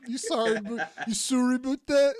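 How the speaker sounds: mock Canadian "sorry about that"; incredulous echo of a Canadian apology; Canadian accent. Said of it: "Canadian people say".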